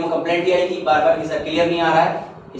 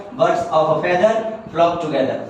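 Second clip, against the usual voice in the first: birds of a feather read slowly, word by word; slow careful reading; 2 semitones lower, much slower than usual. Shown as a demonstration. Teacher reading the English idiom aloud, slow. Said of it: "English में तो क्या होता है".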